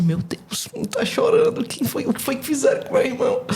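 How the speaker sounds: mock alarm, voice jumping high; fussing worriedly over a crying brother; lightly acted shocked sister; alarmed concern. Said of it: "eu passei e falei assim".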